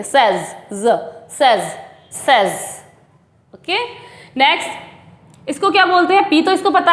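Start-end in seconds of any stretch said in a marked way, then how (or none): 0.0-2.5 "सेज" as sez, low and falling; "सेज" with short e and clear z; correct pronunciation drill. Shown as a demonstration. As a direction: isolate the buzzing z, then repeat "सेज". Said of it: "उसमें सेज की आवाज़ आती है".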